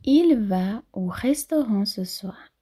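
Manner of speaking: slowish model sentence. Shown as a demonstration. Teacher modelling for students, clear. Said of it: "é importante trabalhar a fonética".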